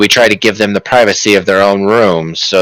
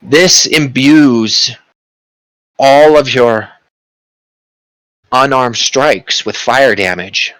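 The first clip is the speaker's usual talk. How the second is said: grand sorcerer; 3 semitones higher, slower than usual. Acted. Sorcerer explains ring power.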